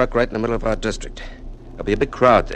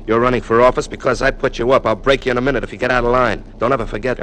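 louder, hard and fast; menacing threat; 4 semitones higher, 5 dB louder than usual. Acted. Party boss threatens the candidate, fast and loud. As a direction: put him back in his place.

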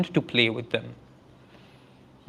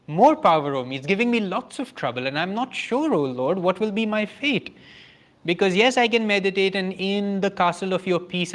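worried devotee; 5 semitones higher than usual. Pretend. Devotee voicing inner fears.

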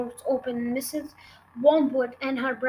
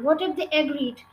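eager; 2 semitones higher than usual. Acted. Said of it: "Matilda cried eagerly".

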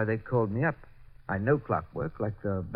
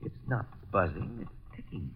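hushed; 7 dB quieter, slower than usual. Acted. Finds the bomb is ticking.

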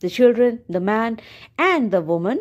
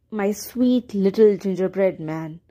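sighed; 3 semitones lower than usual. Acted. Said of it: "she sighed".

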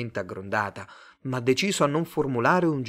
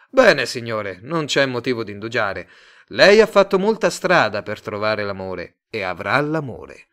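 louder, smooth pushy salesman; salesman Tate; 8 dB louder than usual. Acted. Tate pitching his love firm to Simon, louder slick salesman. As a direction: sell it to him, eager and slick.

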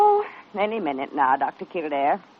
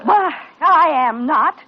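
louder, slow, huffy denial; insulted nurse snapping back at the doctor; indignant denial; 4 semitones higher, 6 dB louder, slower than usual. Acted. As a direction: protest hotly that she isn't fussing. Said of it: "twittering around like an expectant father".

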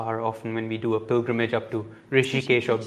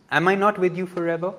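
"Am I not with you forever?" as a promise, with the word "not" lifted and the line quick; reassurance; 6 semitones higher, faster than usual. Shown as a demonstration. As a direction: say it as a comforting promise, rising on "not". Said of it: "it's a reassurance".

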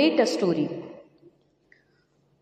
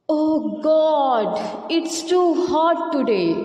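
thirsty crow; 3 semitones higher than usual. Acted. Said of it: "narrate this story in the form of dialogues".

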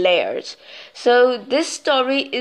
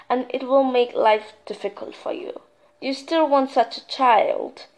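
goddess voice; 3 semitones higher than usual. Acted. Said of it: "said the goddess".

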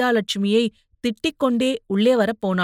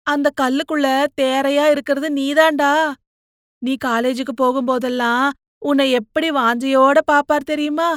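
put-on gently persuading older sister, higher voice; coaxing elder sister; 4 semitones higher than usual. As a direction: lean in and coax your little brother. Sister reassures brother. (தம்பியிடம் கெஞ்சி அறிவுரை சொல்லும் அக்கா)

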